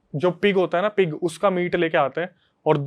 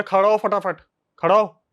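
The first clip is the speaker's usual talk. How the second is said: mock yelled command, moderately raised; retold shout; 3 semitones higher than usual. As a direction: imitate the brother ordering him up. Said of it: "वो चिल्ला के बोलता है". (चिल्लाकर हुक्म देने की नकल)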